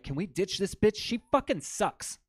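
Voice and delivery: high-pitched imitated grumbling; whiny complaint. Friends begging to ditch his sister, high mock complaint. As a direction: complain high, dragging out the last words.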